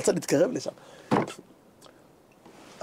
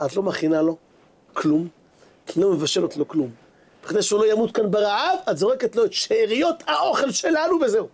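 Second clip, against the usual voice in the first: retold husband's rant, rising toward the end; mock angry scolding; 2 semitones higher than usual. Rich man yells at his wife about feeding the guest, mock angry. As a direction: scold her, mildly hammed-up. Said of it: "צעק, אמר לאשתו".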